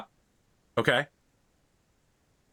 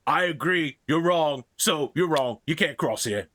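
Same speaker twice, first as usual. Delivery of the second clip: troll voice; 4 semitones higher than usual. Acted. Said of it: "the other one says".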